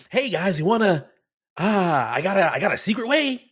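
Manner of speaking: lightly hyped-up creator imitation; mildly peppy mock influencer pitch; entertaining TikToker. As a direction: play the entertaining video host, a little lifted. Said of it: "the real entertaining one".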